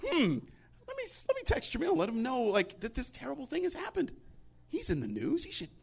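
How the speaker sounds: imitating friend. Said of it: "and they're like".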